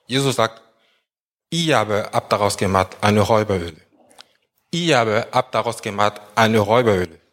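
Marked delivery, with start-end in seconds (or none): 1.5-3.8 "Ihr aber habt daraus gemacht" carries the stress, "eine Räuberhöhle" falls away; stress on sentence front. Shown as a demonstration. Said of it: "die Betonung im vorderen Teil des Satzes". 4.7-7.2 "Ihr aber habt daraus gemacht" carries the stress, "eine Räuberhöhle" falls away; stress on sentence front. Shown as a demonstration. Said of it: "die Betonung im vorderen Teil des Satzes".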